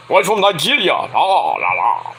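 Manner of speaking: lightly hammed-up Nigerian accent, sliding down in pitch; mock Nigerian accent. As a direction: imitate a Nigerian prince gimmick's accent. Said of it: "had that Nigerian accent".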